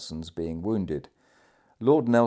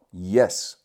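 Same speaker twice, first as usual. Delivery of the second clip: loud, decisive reply; emphatic assent; energetic; 6 dB louder than usual. A narrator's reading. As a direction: answer with firm force. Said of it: "The energetic manner in which he uttered".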